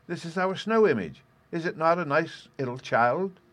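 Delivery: put-on high-pitched, eager little boy; eager child's cry. A narrator's reading. Little boy shows mother the snow image, crying out eagerly. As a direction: show it off in a small child's voice. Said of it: "cried Peony".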